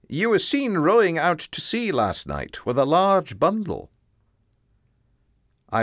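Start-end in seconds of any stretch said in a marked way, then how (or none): 0.1-3.9 lightly voiced stern officer; policeman voice. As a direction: accuse him firmly but calmly. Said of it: "the police officer said".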